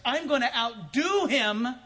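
hammed-up determined thought; competitive inner voice. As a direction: think it like a rival plotting. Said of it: "recipient is thinking is".

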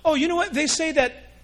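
high, loud, eager gossip voice; a hammed-up gossiping churchgoer; mimicking a gossip. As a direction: lean in like a busybody spreading news.

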